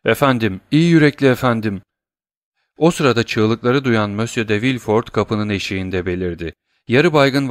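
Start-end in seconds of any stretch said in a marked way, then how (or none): 0.0-1.8 crying out. Acted. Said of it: "bağırdı".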